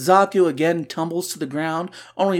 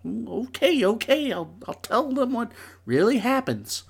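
grudging surrender; 6 semitones higher, 4 dB quieter than usual. Pretend. Host gives in to Harley.

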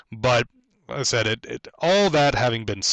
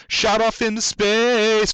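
rising rocket voice; 12 semitones higher, 4 dB louder, much slower than usual. Pretend. Rocket launched into space.

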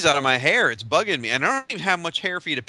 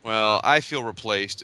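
mock wounded; 5 semitones lower, slower than usual. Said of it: "never heard anybody say they feel replaced".

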